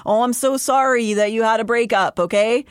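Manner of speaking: rising, fast, fed-up scolding; exasperated rant. Acted. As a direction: vent at her like an exasperated sister. Exasperated rant at sulking Elaine.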